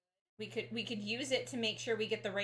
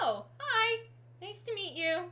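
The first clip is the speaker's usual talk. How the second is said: high, re-enacted excited greeting; mock-excited hello, pitched up; friendly greeting; 12 semitones higher, 6 dB louder than usual. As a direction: greet a kid with an exaggerated high voice. Acting out greeting to child.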